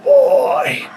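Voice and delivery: very high, airy gasping call. Retold or imitated. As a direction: gasp the word out on the breath. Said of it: "he had a, a airy voice".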